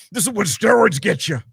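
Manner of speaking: lightly put-on strained steroid voice; udawany głos na sterydach. Mocking impression of wrestler.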